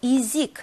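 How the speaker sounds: 이직 said with an "i" sound for the unstressed vowel. Shown as a demonstration. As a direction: demonstrate the reduced "i" in 이직. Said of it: "강세가 없으니까 이 발음이 나고요".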